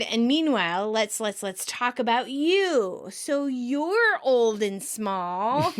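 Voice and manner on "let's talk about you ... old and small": slow, drawn-out awkward patter; slow small talk. Retold or imitated. Keeping the old woman occupied, slow. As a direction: stretch each word to stall her.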